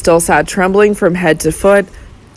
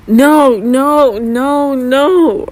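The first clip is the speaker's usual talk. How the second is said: much higher, panicked repeated no; a terrified old man begging it not be true; shrill half-scream; 7 semitones higher, much slower than usual. A narrator's reading. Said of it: "in a shrill, half-screaming voice".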